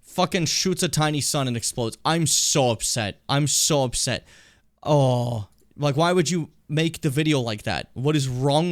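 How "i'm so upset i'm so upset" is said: upset. Real, not acted. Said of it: "My rage is partially quelled".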